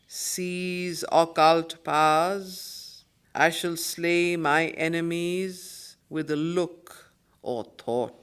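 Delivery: slow, solemn reading of verse; poem recitation. Acted. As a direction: declaim each line with grandeur, letting it breathe. Reciting the poem's lines aloud.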